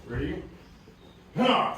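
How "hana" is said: sharp high yelled count; high shouted count. Real, not acted. Instructor yelling the count to the class, high and loud. Martial arts count called out.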